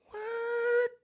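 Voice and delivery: squeaky high disbelieving what; a stunned what at the vlog camera; shocked what. Real, not acted. Vlogger stunned at the primary result, high squeaky what.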